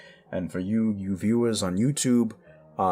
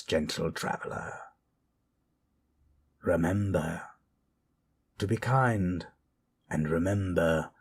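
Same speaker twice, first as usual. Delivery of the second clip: lightly voiced eerie host bidding travelers goodnight; a hint of a campfire narrator; spooky storyteller host; 2 semitones lower than usual. Soft spooky host sign-off.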